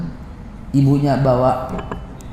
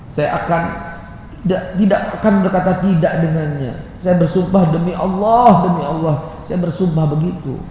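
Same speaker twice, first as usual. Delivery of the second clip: tearful vow; 4 semitones higher, 3 dB quieter than usual. Retold or imitated. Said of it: "saya nangis".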